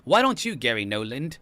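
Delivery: a bad, hammed-up British accent; hammed-up British accent with a pitch jump on "Why don't you"; terrible British accent. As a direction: put on a lousy British accent for a mock plea. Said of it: "my terrible British accent".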